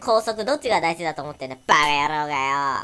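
angry. Acted. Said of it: "って言うとね".

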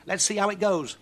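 high, loud singsong witch chant; witch reading a spell. Acted. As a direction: recite the rhyme like a gleeful witch.

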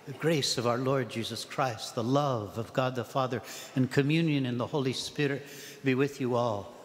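measured, reverent priestly greeting; solemn greeting. Retold or imitated. Priest greets the whole assembly, solemnly. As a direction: imitate a priest's solemn, beautiful blessing. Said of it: "very solemnly, very beautifully".

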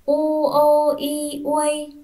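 u o i uôi spelled slowly, high and loud, letter by letter; slow spelling aloud. Shown as a demonstration. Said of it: "Chúng mình đánh vần". (đánh vần chậm, to, rõ)

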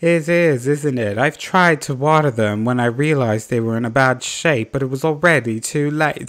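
lightly hammed British accent; badly faked British regret; horrible British accent. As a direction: play it mournful in a poor British accent. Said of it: "That is a horrible accent".

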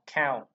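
"cow" with a scraped, airy kh start; aspirated K in "cow". Shown as a demonstration. Teacher modelling for learners, "cow" with aspirated K. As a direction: push air out on the c of "cow". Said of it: "Khẹt ra".

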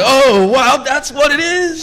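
stunned wife, voice leaping up; surprised realization. Retold or imitated. Wife realizes the racist remark.

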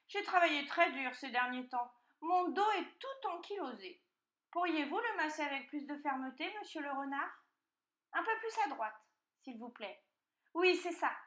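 high, fussy piglet voice; pampered piglet. A narrator's reading. Piglet directing the fox's massage, high and indulgent. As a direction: direct your masseur in high piglet tones.

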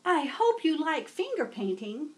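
put-on old teacher welcoming a new student; kindly teacher. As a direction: greet a new pupil warmly. Teacher speaks.

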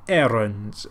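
badly faked Caribbean accent; attempted Caribbean accent. Shown as a demonstration. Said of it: "really thick kind of Caribbean accent".

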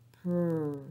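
"pr" said alone, no vowel after; isolated onset "pr" for children; beginning sound isolated. Shown as a demonstration. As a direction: voice only the "pr" onset. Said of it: "tell me the beginning sound".

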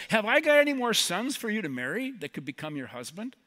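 heated retort, acted out; amped up. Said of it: "she kinda amps this up".

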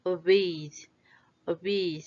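obeyed with voiced Y sliding into D; vibrating Y. Shown as a demonstration. Teacher shows the Y vibrates, voiced ending on obeyed. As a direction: let obeyed buzz through to the final D. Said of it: "La Y también es Y, vibra".

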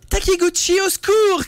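high-pitched fake sob of panic; tearful cry for help. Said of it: "cria-t-elle en courant vers lui, le visage ruisselant de larmes".

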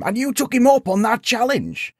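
high-pitched, astonished question; incredulous. A narrator's reading. Sage questions the knight's rash acceptance, incredulous. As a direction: ask it way up high in disbelief.

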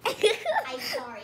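giggling through an apology; laughing apology. Real, not acted. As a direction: laugh while saying sorry.

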